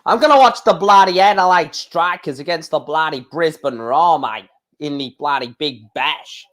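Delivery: a mock Australian accent, lightly put on; bad Australian accent. Streamer mocking Australian cricket fans, in a bad Australian accent. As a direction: ham up an Aussie bloke saying bloody a lot. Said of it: "That's such a bad Austra-, Australian accent".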